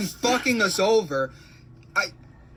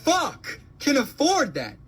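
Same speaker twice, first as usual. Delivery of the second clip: high, exasperated question; outraged disbelief; 6 semitones higher than usual. Real, not acted. Renter reacts to apartment prices, high outraged disbelief. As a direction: throw it out high, word by word.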